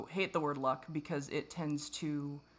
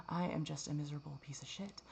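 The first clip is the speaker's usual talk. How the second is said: whisper; 3 semitones lower, 8 dB quieter than usual. Real, not acted. Bitter self-deprecating rant.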